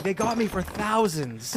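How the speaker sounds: high, slow put-on voice; slow, high rueful confession; imitating the Utah guy. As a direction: drag it out like a rueful victim. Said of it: "he's like".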